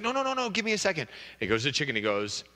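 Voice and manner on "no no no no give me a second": high, fast eager husband. Acted. Husband begging his wife for a second, high and hurried. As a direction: rush to stop her walking off.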